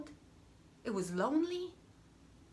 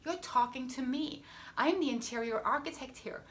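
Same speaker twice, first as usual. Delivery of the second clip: outraged disbelief; 4 semitones higher, 5 dB louder than usual. Retold or imitated. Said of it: "I'm like".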